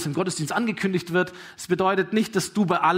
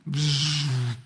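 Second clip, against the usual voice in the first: long dismissive hissed puff; dismissive noise; 3 semitones lower than usual. Acted. Sceptic brushes off Nazareth, dismissive noise. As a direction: brush it off with a drawn-out "pshh".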